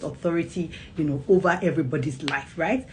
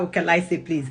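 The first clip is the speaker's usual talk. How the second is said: pouty reluctance. Retold or imitated. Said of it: "the mom was doing shakara".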